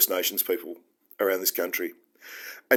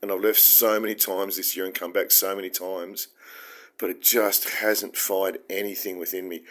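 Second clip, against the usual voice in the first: ordinary talk, nothing marked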